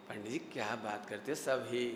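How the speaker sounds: low, soft, offhand mock answer; dismissive reply. Teacher voicing a worshipper's reply to the pandit, low dismissive tone. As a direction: act a listener brushing it off, pitched right down.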